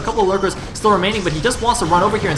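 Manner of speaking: keyed-up esports commentary; urgent running match call; excited play-by-play. Real, not acted. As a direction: call the rush live as it unfolds. Live play-by-play of Nexus attack.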